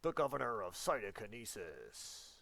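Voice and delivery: lightly voiced action-hero governor; Arnold Schwarzenegger. Teacher hams up Arnold for her students, lightly accented. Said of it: "I'm trying to do an Arnold Schwarzenegger impression".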